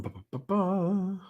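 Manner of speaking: absent-minded babble while searching; idle ba-ba-ba filler. Real, not acted. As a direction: fill time with quiet, slow ba-bas. Filler while scrolling through comments.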